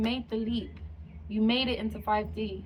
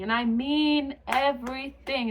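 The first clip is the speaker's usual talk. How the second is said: "everything" stretched out, higher and louder; emphatic everything; 4 semitones higher, 5 dB louder than usual. Real, not acted. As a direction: punch "everything" slowly with raised pitch. Insisting on total change.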